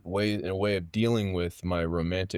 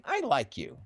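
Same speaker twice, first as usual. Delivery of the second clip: imitating teacher; 4 semitones higher than usual. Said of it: "I remember him saying".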